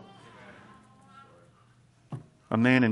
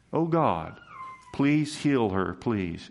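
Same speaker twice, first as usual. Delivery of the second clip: pleading prayer; slower than usual. Retold or imitated. Moses's prayer repeated to the church, mildly pleading. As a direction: lift the plea a little, then let the last please drop. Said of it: "That was his prayer".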